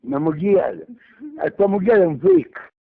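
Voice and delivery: loud furious yell; shouting. Real, not acted. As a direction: shout it back angrily. Shouting back insults on phone.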